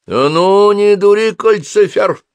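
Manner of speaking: loud, high scolding order; commanding. A narrator's reading. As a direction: order the fire demon sharply. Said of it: "велела она". (властно и громко)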